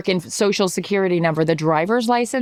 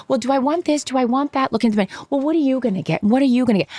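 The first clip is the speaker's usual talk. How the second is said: higher-pitched imitation of indecisive customers; mock dithering diners; 5 semitones higher than usual. Women dithering over a menu, mock indecisive. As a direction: lightly mimic friends going back and forth.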